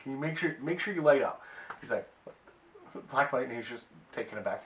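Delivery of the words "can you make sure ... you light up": higher, louder request to light up; hammed-up crook asking the hero to glow; Two Bits coaxing the hero to light up for the photo, higher; eager Two Bits.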